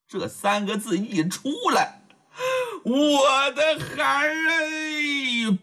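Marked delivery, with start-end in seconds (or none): 2.8-5.6 high, drawn-out wail to her long-lost son; an old mother's tearful high wail; crying out. A narrator's reading. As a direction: cry it out slowly, voice breaking. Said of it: "老王妃已然泣不成声了".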